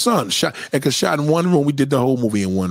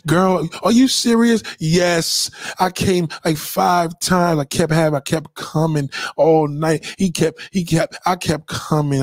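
put-on higher, excited girl-talk voice; gossiping girlfriend; 4 semitones higher than usual. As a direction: dish it to your best friend.

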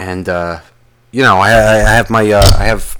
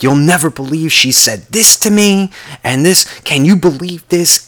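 complaining widow; 7 semitones higher than usual. Retold or imitated. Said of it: "I'm literally hearing".

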